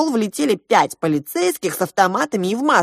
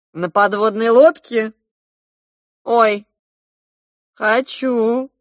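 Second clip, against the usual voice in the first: delighted; 5 semitones higher, 6 dB louder, slower than usual. A narrator's reading. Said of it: "обрадовалась хозяйка".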